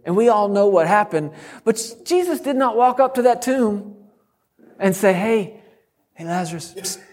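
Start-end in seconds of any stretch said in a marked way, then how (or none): 5.1-7.0 softly trying to get Lazarus's attention; mock timid hush. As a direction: call him furtively, ending in a psst. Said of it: "that's not how he said it".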